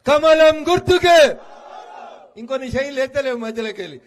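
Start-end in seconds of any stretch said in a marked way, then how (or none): 0.1-1.2 loud, slow rally shout; shouted slogan. Real, not acted. Leader asking the crowd to say it louder, slow shouted slogan. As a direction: bellow the slogan for the crowd to echo. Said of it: "కాబట్టి జర గట్టిగా చెప్పుర్రి".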